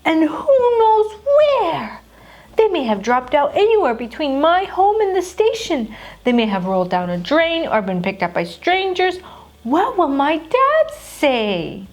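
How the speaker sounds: despairing. Acted. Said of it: "in despair".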